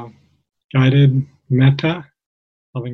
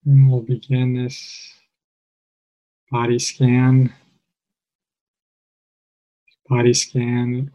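calm, measured meditation guide with long pauses; guided meditation. Real, not acted. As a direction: guide listeners gently, phrase by phrase, leaving space.

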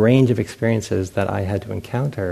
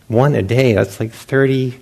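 louder, rising exasperation; mock anguish; 2 semitones higher, 6 dB louder than usual. Monk counting hours to next candy, mock anguish. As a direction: whine about the endless wait. Retold agonized inner thought.

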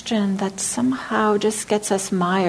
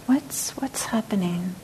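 gentle self-inquiry; 5 dB quieter, slower than usual. Shown as a demonstration. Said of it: "We can say, like".

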